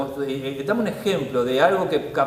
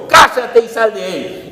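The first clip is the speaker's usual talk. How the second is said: slow, loud, commanding order; stern rebuke; 4 semitones higher, 7 dB louder, slower than usual. Acted. Jesus ordering the demon out, slow and stern. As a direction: cast out the demon with authority.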